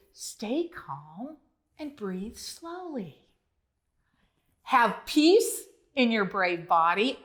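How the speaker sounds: calm them down gently. Acted. Calming the rescued frogs.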